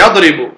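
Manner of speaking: يضرب said "yadribu", i after the ra; kasra on the ra. Shown as a demonstration. Teacher giving students the accepted verb form, يضرب as "yadribu". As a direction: give يضرب an i vowel: yadribu. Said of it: "ماذا نقول فيه".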